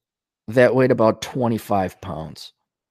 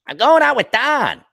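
Minnesota voice, higher, Dawn said as Don; Minnesota accent; 12 semitones higher, 4 dB louder than usual. Retold or imitated. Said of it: "do not distinguish between Dawn".

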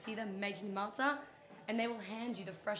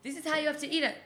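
grand reading voice; 5 semitones higher, 9 dB louder, slower than usual. Pretend.

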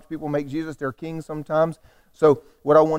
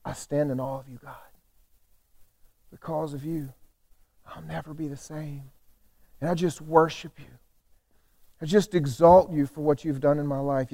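hushed worship; 5 dB quieter than usual. Acted. Preacher acting a worshipper standing in awe, hushed and reverent. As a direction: murmur it softly to God, with pauses. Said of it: "The whole tone just changes".

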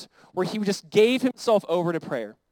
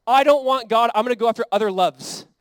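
loud, raised-pitch refusal; defiant declaration; 3 semitones higher, 7 dB louder than usual. Acted. Israel refusing God for other loves, loudly defiant. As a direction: belt it out like a wilful rebel.

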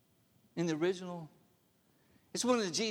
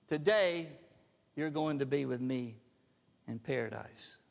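tender promise; 4 semitones lower than usual. Acted. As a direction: hush it like a comfort to a dying man. Jesus's promise to the thief.

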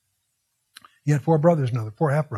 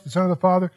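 Father lifted a little at the end of the quote; stress on Father; faster than usual. Shown as a demonstration. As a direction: lean lightly on Father in the Son of the Father. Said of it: "Interesting emphasis".

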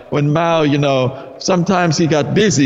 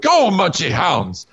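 villain voice; 4 semitones higher than usual. Acted. Villain sets hounds on them.

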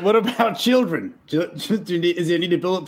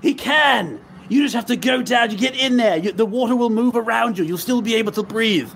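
raised, insistent encouragement; higher-pitched coaching in a crisis; urgent reassurance; 4 semitones higher than usual. Acted. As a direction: push them on with urgent confidence. Player urgently reassures girl.

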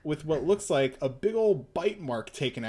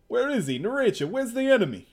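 urgent questioning; 8 semitones higher, 5 dB louder, faster than usual. Acted. Character asking urgently.

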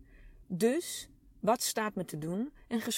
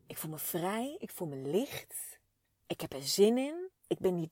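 soft and happy; 4 dB quieter than usual. Real, not acted. Savouring feeling free after talk.

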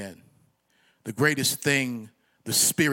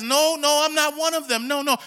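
acted denial; 11 semitones higher, 6 dB louder than usual. Acts out Peter denying the accusation.

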